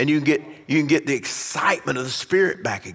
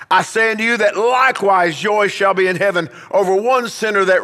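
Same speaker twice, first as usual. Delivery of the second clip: preaching scripture; 5 semitones higher than usual. Acted.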